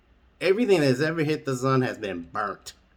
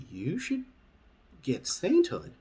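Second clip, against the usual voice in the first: alien voice; 8 semitones higher, slower than usual. Acted. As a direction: ask like a curious little alien.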